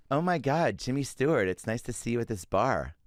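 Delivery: put-on girl at the bar. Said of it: "I'll be the girl at the bar".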